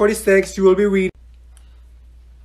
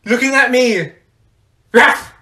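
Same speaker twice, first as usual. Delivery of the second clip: annoyed; 5 semitones higher, 3 dB louder than usual. Acted. Annoyed at being stared at.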